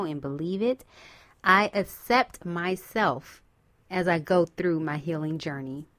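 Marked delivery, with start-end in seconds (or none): 1.4-5.9 affirmation. Shown as a demonstration. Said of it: "say this to yourself".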